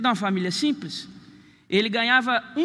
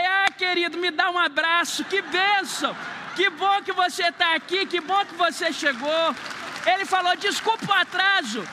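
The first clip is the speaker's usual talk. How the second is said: high, syrupy, overly sweet host voice; sugary welcome; 5 semitones higher than usual. Retold or imitated. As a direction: melt into exaggerated friendliness. Planned rant melts into sweetness.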